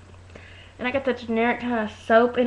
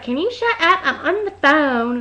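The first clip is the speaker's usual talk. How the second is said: higher-pitched imitation of an annoyed complaint; mock irritated snap; 4 semitones higher than usual. Retold snap, second telling.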